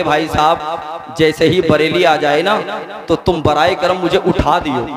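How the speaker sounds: low, slow folksy dialect, drawn out on भाई साहब; lightly voiced country traveller asking a favour; slow local dialect drawl. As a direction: say "उठा दियो" with a rustic village lilt, slowly. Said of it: "क्या कहा?".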